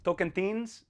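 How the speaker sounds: Tocantins guessed as toh-kan-THEENS, rising; questioning Tocantins with a TH in the last syllable; American pronunciation. Shown as a demonstration. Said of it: "how you Americans say it".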